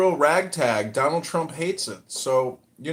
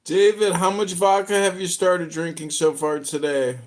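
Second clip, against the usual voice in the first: raised-voice challenge, louder on the name; loud needling question; 4 dB louder than usual. Real, not acted. Host needling David about his vodka drinking, loud challenge. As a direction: call out loudly to David, pitched up.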